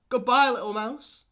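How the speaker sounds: high, loud hurried farewell; hammed-up panicky goodbye; fleeing owl. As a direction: yell it as you flee. Owl flees in story.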